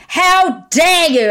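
mock fury, dragged out; livid. Mum retells confronting the couple in Curry's, slow and angry. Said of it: "I was livid".

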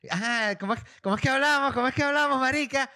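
very high-pitched mock Venezuelan voice; hammed-up Venezuelan accent, teasing and high; imitated Venezuelan accent. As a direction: mimic a Venezuelan girl, voice shooting right up. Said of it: "imita el acento idéntico".

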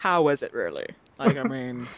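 mock gossip voice. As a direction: drop low and dish for the dirt. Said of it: "No, I was playing".

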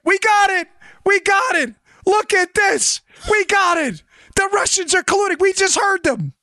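high-pitched, gleeful crowing, hammed up; mock excitement. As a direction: crow like a gullible spy with a big find. Mocking gullible spies' excited cries.

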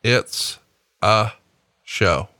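It's ... a ... show, with a pause after each word; spaced-out reply. Retold or imitated. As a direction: spell it out word by word. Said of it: "And I replied".

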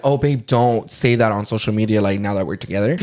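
low-pitched imitation of a boyfriend; objecting boyfriend. Boyfriend asks her not to post that, imitated low. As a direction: drop well down into his voice.

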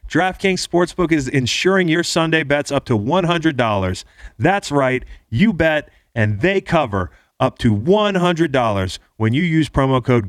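upbeat sponsor ad read. Acted. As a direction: sell it like a radio ad. Host reads sponsor ad.

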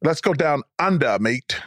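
attempted Australian accent; amateur Australian imitation; Aussie accent. Shown as a demonstration. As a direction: put on a casual Aussie accent. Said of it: "give us an Aussie accent".

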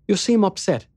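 sugary concerned voice; sweet concern. A narrator's reading. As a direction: coo it with fake care. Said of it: "she said with sweet concern".

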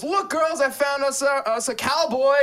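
put-on high excited girl voice; girly voice. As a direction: call it out like a party girl. Heroine calls girls, acted quote.

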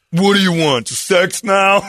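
man doing a gruff woman's voice; girl voice. Retold or imitated. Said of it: "That's a solid girl voice".

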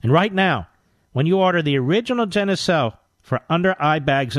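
upbeat hard-sell ad read. Acted. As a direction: push the sale like an infomercial. Host reads skincare ad.

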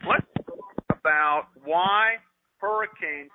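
real stop-and-start delivery, fighting feedback; distracted by delay. Real, not acted. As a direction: drag the words out, thrown by your delayed voice. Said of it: "you're getting distracted because you're hearing yourself".

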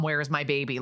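a hammed-up SVU sad mom wail, understated; imitating sad TV mom. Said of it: "she has the S V U sad mom".

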